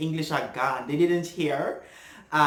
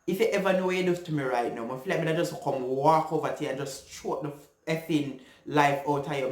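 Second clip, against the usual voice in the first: retold threat; faster than usual. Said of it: "I'm like".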